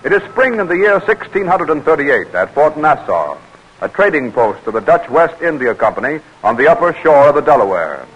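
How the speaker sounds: measured, formal announcer read; radio drama narration. A narrator's reading. Announcer introducing the Delaware story, formal narration. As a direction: set the historical scene like an old radio narrator.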